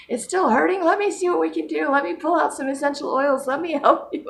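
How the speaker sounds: high-pitched imitation of worried helpers; concerned helper. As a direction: fuss over someone in a high voice. Voicing concerned, helpful family reacting.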